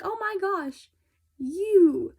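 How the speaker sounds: sudden high yell at the guard; outraged shout. Retold or imitated. Harper yelling at the guard who kidnaps a girl, outraged shout. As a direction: blast it out like catching him red-handed.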